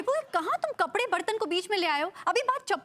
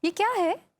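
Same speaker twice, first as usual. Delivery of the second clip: insistent question; slower than usual. Acted. Wife asking husband about slippers, insistent. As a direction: press him for an answer.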